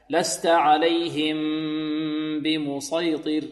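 slow لست عليهم بمسيطر, lips closed on the ميم and باء; slow correct recitation. Shown as a demonstration. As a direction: recite slowly with lips pressed together. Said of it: "يحذر الطالب هنا من إفراج الشفتين". (تلاوة بطيئة بإطباق الشفتين)

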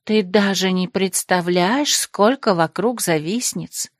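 slow, languid and knowing; languid sigh. Acted. Krasimirka boasts of rivals to Desmond, slow and languid. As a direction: draw it out like a bored socialite. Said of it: "томно вздохнула Красимирка".

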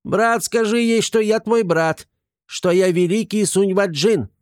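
high, squeaky begging voice; pleading gremlin. Acted. Gremlin begging Artyom to tell the cook who he is, high plea. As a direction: beg your brother to vouch for you.

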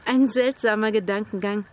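a short laugh, then amused words. Acted. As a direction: chuckle through the line. Amused at a strange thought. (leise lachend)

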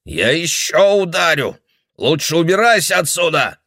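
put-on high, loud menacing old man; old man threatening the girl. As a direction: threaten to strike again.

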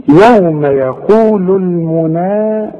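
measured tajweed reading; slow recitation. Shown as a demonstration. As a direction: recite slowly, long vowels two counts. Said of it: "شوف القاف". (تلاوة مرتلة بطيئة)

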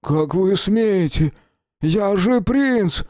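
stunned that anyone dares hit him; shocked prince. Acted. Bloodied prince to the master who struck him, stunned. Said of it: "очень удивлённо".

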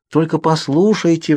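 high, slow, drawn-out plea; pleading. A narrator's reading. Girl begging the arguing Cullens, pleading. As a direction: implore them to listen. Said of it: "взмолилась я".

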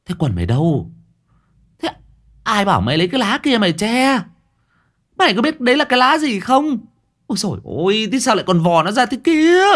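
put-on Thơm laughs at the silly boy while scolding; laughing scolding. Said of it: "Cô Thơm bật cười".

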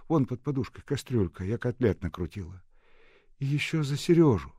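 lifted, livelier character voice; voiced dialogue. A narrator's reading. Woman talking at home, lifted voice. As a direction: play the women talking at home.

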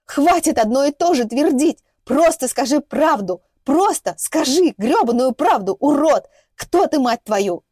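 loud, high, slow pounding demands; hysterical shouting. A narrator's reading. Hysterical captive girl shouting for the truth, loud, slow and high. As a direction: beat out each word as you bounce.

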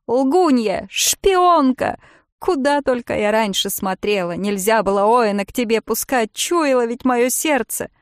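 high, loud shrieking accusation; screeching. Acted. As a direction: shriek the insults. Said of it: "Голос сорвался на визг". (срывается на визг, высоко и громко)

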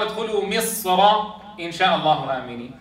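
"مصر" read on without stopping, its ر thick and open; Qur'anic recitation with emphatic ر in "مصر"; heavy Raa. Shown as a demonstration. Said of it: "فمصر فيها التفخيم قولا واحدا".

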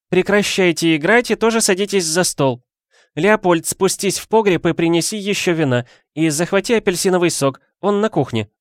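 high, loud commanding voice; bossy orders. A narrator's reading. Woman giving orders to kids and husband, loud. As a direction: order the household around.

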